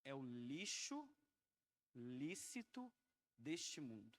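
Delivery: reverent, halting relay of God's words; with great fear. Retold or imitated. Preacher repeats the Lord's answer to the church, with reverent fear. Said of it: "eu falo isso com muito temor".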